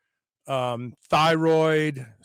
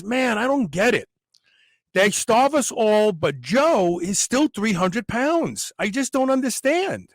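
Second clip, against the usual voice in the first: higher-pitched, hammed-up incredulity; mock bafflement; 5 semitones higher than usual. Imagined camp prisoner puzzled that Joe is still heavy, mock bafflement. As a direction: play at being utterly baffled.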